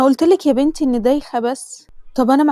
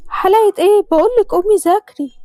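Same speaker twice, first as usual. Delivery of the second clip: higher, louder annoyed mother; scolding mother; 7 semitones higher, 6 dB louder than usual. Acted. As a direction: snap at the lazy daughter.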